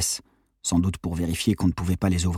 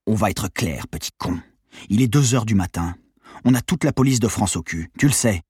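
threatening gangster, raised voice; menacing thug; 2 semitones higher than usual. Acted. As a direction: lean in and threaten him. Gangster threatens Colin at gunpoint.

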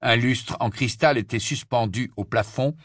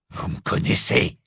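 bitter. Acted. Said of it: "une certaine amertume dans le ton".

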